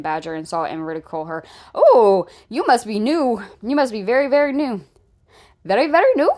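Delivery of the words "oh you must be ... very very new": mock pity. Real, not acted. Mocking a commenter on live.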